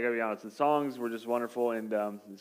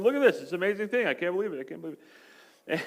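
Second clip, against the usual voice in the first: amazed gushing; 4 semitones higher, much faster than usual. Retold or imitated. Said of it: "and they're going".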